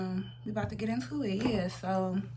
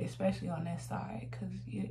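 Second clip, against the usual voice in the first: whisper; 7 dB quieter than usual. Real, not acted. Concentrating while applying makeup.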